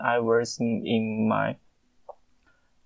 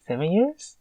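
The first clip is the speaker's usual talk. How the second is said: surprised; 6 semitones higher, faster than usual. Real, not acted. Realizing how long ago it was.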